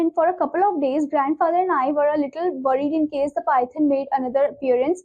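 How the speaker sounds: measured, careful reading pace, each phrase spelled out; slow classroom reading. Acted. Teacher reading the story text to students, slow and clear.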